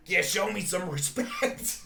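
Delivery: loud, slow mock demand; Justin Roiland. Actor demanding his due from the room, mock-pompous. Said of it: "He come in the room, he's like".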